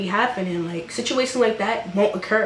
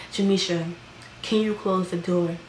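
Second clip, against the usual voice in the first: a slightly lower, restrained retold request; asking nicely; 3 semitones lower, 5 dB quieter than usual. Boyfriend asking her to close the door, asking nicely. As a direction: imitate him asking politely, toned down a little. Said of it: "Okay, you ask nicely".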